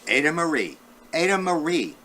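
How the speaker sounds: high, ringing call of her name; sing-song call. A narrator's reading. Teacher calling out the book's opening refrain.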